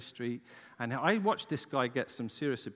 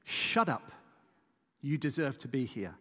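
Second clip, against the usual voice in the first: harsh creature. Retold or imitated. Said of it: "this thing said to him".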